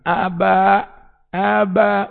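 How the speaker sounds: high mock baby call; childlike plea; child calling father. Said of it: "הוא יראה מילה אחת".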